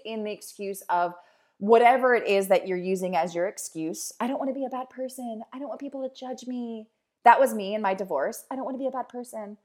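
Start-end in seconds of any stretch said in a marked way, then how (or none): 4.2-6.9 voiced excuse. Voicing her excuses from her divorce. 8.5-9.6 voiced excuse. Voicing her excuses from her divorce.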